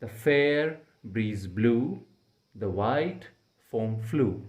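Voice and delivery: each pair of words said separately, stressed; slow reading word by word with pauses; beats split apart. Shown as a demonstration. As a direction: break the line into stressed chunks. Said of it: "तो इस line में".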